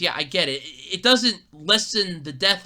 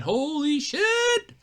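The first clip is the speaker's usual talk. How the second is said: excited exclaim; 9 semitones higher, much slower than usual. Real, not acted. Excited exclamation repeated louder.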